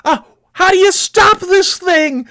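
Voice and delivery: drawn-out, high panicked wail; acted panic. Novice driver in runaway truck, acted panic. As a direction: wail it slowly, voice way up.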